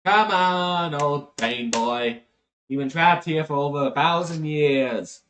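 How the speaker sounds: lightly voiced jeering captor; taunting archangel. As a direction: call out teasingly to an old captive. Archangel taunts the trapped dragon.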